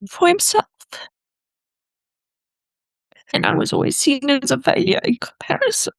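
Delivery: crying through the words; ugly crying. Real, not acted. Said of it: "I'm ugly crying right now".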